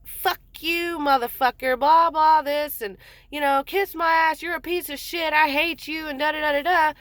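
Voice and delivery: high-pitched retold cussing. Daughter cussing out her father, retold as mock tirade. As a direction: rattle off a teenager's insults, mock angry. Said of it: "she starts cussing him".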